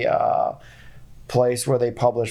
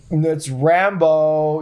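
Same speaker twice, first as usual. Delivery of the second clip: RAMBO drawn out slowly with firm stress; emphatic retold correction; 2 semitones higher, 4 dB louder, much slower than usual. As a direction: set them straight by stretching out "Rambo". Mock correcting a young coworker's mistake.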